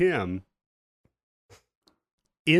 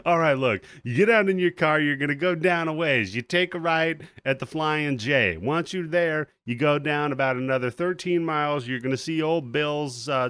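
put-on louder, casual good-old-boy directions; loud, laid-back trucker giving directions; folksy skull giving directions; 2 semitones higher, 4 dB louder than usual.

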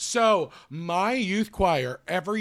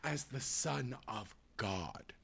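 pretentious director. Pretend. Mock director giving actors notes.

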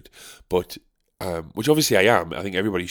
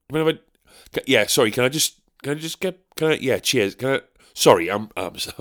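higher, fumbling polite mumbles squeezing past; awkward British apology; 4 semitones higher than usual. Retold or imitated. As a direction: keep apologising as you edge through a crowd. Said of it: "You just kinda go".

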